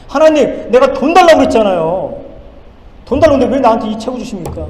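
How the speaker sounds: loud, high protest to God; indignant protest. Retold or imitated. Student pastor protesting to God about the book, loud and indignant. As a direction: throw the complaint at God.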